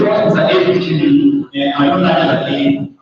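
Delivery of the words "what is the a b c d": much higher, lightly mocking student whine; teacher mocking a clueless student, higher. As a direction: mimic a lost student, pitched up. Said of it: "don't say".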